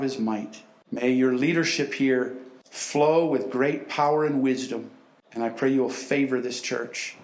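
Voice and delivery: earnest closing prayer; congregational prayer. Acted. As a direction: pray over the church with conviction.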